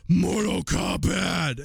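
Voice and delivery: high, drawn-out game-title cry; imitating excited son. Son holds up the game to dad, triumphant kid voice. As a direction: stretch it out high like a kid showing off a find. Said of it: "he held it up and he goes".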